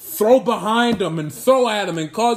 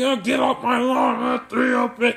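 put-on grumpy old man voice; 2 semitones higher than usual. Mocking an old grumpy baseball manager's complaints: old grumpy man voice. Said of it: "this old grumpy".

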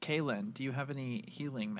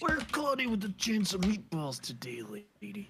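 wrestling promo style delivery; 8 semitones higher than usual. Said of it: "this macho man voice".

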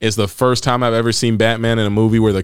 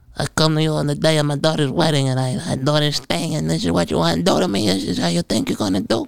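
squeaky, high-pitched put-on voice; 6 semitones higher than usual. Mocking a movie character's unnecessarily campy voice, Robert De Niro with helium. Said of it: "like Robert De Niro with a helium tank".

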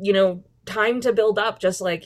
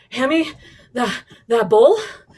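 out of breath, higher and louder; 4 semitones higher, 6 dB louder than usual. A performer acts a scripted line as directed by a partner, out of breath. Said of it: "Your accent is as follows: out of breath".

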